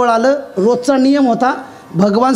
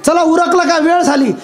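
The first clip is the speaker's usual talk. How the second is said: higher-pitched call to Arjuna; acted summons, pitched up; 4 semitones higher than usual. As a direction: call the driver to get going. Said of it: "लगेच अर्जुन आवाज".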